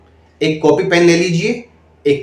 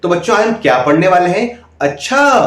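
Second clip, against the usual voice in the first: put-on higher, bright classroom question to small kids; lively teacher demo; 4 semitones higher than usual. Shown as a demonstration. Showing trainees how to ask kids, lively and high. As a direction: coax the children like a lively teacher. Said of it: "आवाज में उतार चढ़ाव लाइए बच्चों के according".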